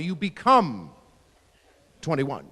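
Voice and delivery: drawn-out "become", then a pause; ceremonial. Shown as a demonstration. Comic showing how the word sounds, ceremonial. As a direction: pronounce it like a solemn rite. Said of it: "even the word sounds like a ceremony".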